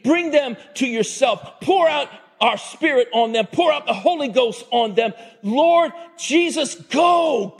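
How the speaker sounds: rousing, high-pitched commands building to a peak; urgent sending. Acted. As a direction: urge him on in short, driving bursts. Preacher voices God sending Jesus.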